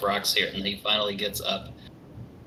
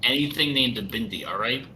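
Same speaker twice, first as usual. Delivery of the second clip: flustered denial; 4 dB louder than usual. Acted.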